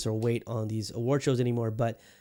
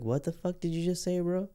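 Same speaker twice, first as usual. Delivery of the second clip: mock outraged fan; 6 semitones higher than usual. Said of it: "geeks who are just like".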